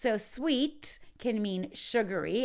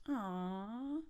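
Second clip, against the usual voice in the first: touched aw; 7 dB quieter than usual. Shown as a demonstration. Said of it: "expressing the idea of, um, accepting a compliment".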